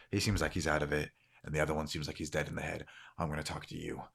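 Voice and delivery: low, soft, quick aside; quiet sizing-up. Acted. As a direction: talk low, passing over the dazed ones. Man quietly sizes up the group.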